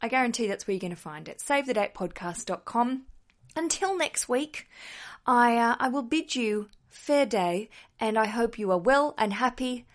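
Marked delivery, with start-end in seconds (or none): 3.5-7.7 slow, mock formal farewell; lightly hammed-up gentleman; silly old-fashioned voice. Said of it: "enough silly voices".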